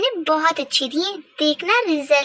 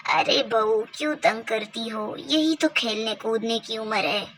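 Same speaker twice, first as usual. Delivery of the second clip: lightly voiced grandmother; 4 semitones lower, 4 dB quieter than usual. Grandmother defending her granddaughter to the daughter-in-law, a lightly lowered old voice. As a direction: scold the daughter-in-law gently as an indulgent old granny.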